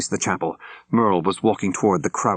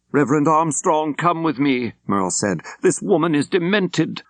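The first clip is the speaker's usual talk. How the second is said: commanding; 9 semitones higher than usual. Acted. Priest commanding amid confrontation.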